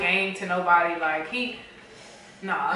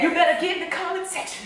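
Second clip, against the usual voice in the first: higher preaching cadence; pastor voice; 7 semitones higher than usual. Acted. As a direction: preach it to the congregation. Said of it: "you sound like a pastor".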